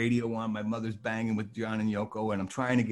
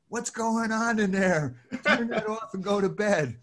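higher mock scolding mother; 9 semitones higher than usual. Mother at the bedroom door, scolding in a higher voice. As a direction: play the mother telling him off. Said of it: "my mother would come to the door and say".

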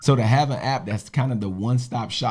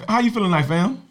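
hyped greeting; 9 semitones higher, faster than usual. Acted. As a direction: keep the welcome pumped up.

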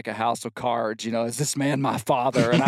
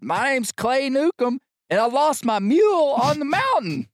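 louder pitched-up shout; yelling even louder; 13 semitones higher than usual. Retold or imitated. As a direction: belt it out so the whole bar hears. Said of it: "so I yell even louder".

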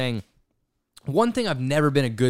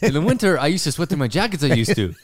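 higher, louder mock recital; lively mock storybook rhyme; Doctor Seuss; 3 semitones higher, 4 dB louder than usual. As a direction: mimic the muddled sentence teasingly. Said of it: "That was like a Doctor Seuss".

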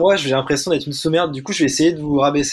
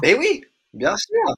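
ironique; slower than usual. Real, not acted. Réponse gagnante, ton ironique.

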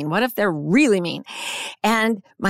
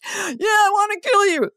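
acted threat shout; 12 semitones higher than usual. Acting the hostage taker.

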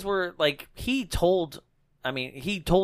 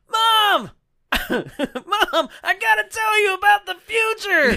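high, loud, laughing yell; frantic mock yell; 4 dB louder than usual. Thor frantically warns his mom, a laughing high yell. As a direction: blurt it out in a giddy panic.

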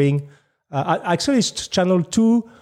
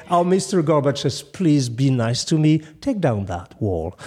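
cowboy voice; 4 semitones lower than usual. Retold or imitated. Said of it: "said like a cowboy".

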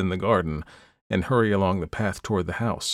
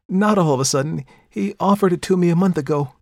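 higher and louder, spirited and defiant; 10 semitones higher, 6 dB louder than usual. A narrator's reading. Perdita defending her engagement, spirited and loud. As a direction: keep the spirited protest going. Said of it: "cried Perdita with spirit".

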